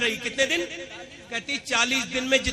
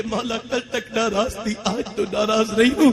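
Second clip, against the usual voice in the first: mother's tearful prayer rising to a loud cry; weeping mother begging forgiveness for her son, crying out; tearful plea; 4 semitones higher, 4 dB louder than usual. Acted. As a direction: plead with God through tears, building louder. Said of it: "ماں روتے روتے کہتی ہے".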